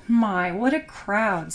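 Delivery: slow, contented sigh of delight; happy sigh. Acted. Mother gazing at the fair crowd, slow happy sigh. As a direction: breathe it out happily, slowly. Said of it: "sighed Millicent Baxter happily".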